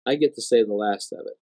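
low, quiet word of final authority; imitated voice of God. God as third speaker has the final word, low and measured. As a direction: drop low and state it with finality. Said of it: "the third speaker is God".

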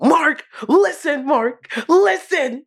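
slow, laughing mock superhero father; a father lecturing his son, in a slow mock-grave voice; Omni-Man. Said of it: "sitting there with the Omni-Man pose".

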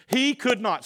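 "He could not" pitched high and firmly stressed; emphatic. Real, not acted. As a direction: lift "He could not" high to drive it home. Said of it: "emphasize this point".

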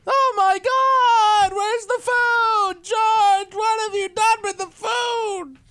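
very high, frantic sitcom wailing; George Costanza. Acted. George asking Jerry where the food is, shrieking. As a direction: yell it way up high, exasperated. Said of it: "swearing George Costanza".

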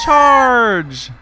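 loud high rallying shout; rally the party with a shout; battle cry. Acted. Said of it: "and I'm gonna say".

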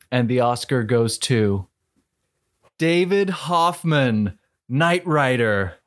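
awards announcer. Pretend. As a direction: announce the winner with ceremony. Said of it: "being announced the winner".

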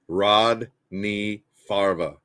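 slow, deep drawn-out name call; drawn-out announcer. Shown as a demonstration.

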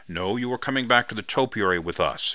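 firm insistence, leaving no room. Acted. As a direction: say it as settled, not a request. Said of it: "Vernon said firmly".

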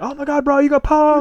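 high-pitched gleeful reveal; mock celebration. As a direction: crow over the pranked friend, hammed-up. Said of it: "hugging him from behind".

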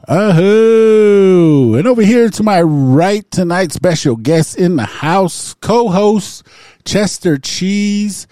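loud, high-pitched ring announcer call; hype show announcer. Acted. Host introducing the night's special guest co-host, hype announcer. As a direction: belt out the guest introductions, stretching names.

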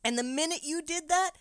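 very high, loud mocking accusation; old keeper accusing his assistant, high and loud; accusing shout. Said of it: "Old Thomas is like".

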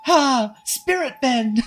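high-pitched attack cry; Oki. Acted. Oki throwing golden glitter, high battle cry. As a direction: shout the move in a piping voice. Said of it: "the character of Oki".

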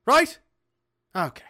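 half-Irish Newfoundland dad checking he's understood; short prompts in a put-on Newfoundland accent; bad Newfoundland accent. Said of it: "Minus the bad half Irish Newfoundland accent".

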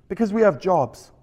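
attempted Canadian accent for a dad; dad answering a child in mock Canadian. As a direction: put on a light Canadian accent. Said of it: "my best Canadian accent".

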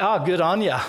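a light Australian "good on ya"; Australian accent. Shown as a demonstration. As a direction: toss it off in a hint of Australian accent. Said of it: "the Australian kind of accent".

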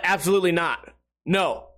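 mildly mean, blunt refusal; retold curt brush-off. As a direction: refuse with no sympathy. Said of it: "I said it in the meanest possible way".

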